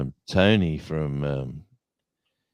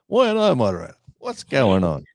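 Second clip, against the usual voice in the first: mock surprise; 7 semitones higher, 4 dB louder than usual. Real, not acted. Suddenly made moderator, mock outrage.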